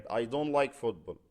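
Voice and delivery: very slow, clearly spaced words; slow English example. Shown as a demonstration. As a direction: model the sentence slowly for students. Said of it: "ممكن اشيل like واحط ايه مكانها". (نطق بطيء وواضح للمثال)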